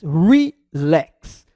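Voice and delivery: relax said slowly and deliberately; relax as one opening. Shown as a demonstration. Teacher demonstrating the mouth opens only once, deliberate relax. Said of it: "Nós abrimos a boca pra falar apenas uma vez".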